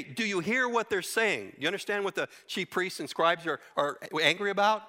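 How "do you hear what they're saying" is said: higher, indignant challenge; mock indignant question. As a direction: priests scoffing at Jesus, lightly acted. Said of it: "they were furious".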